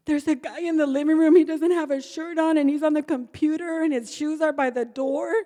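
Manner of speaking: mock outraged daughter; angry daughter. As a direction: scold like the daughter catching her mother. Daughter confronting drunk mother.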